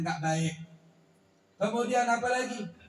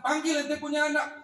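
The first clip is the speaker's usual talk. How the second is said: commanding caliph; 7 semitones higher than usual. Acted. Caliph Umar orders the son fetched.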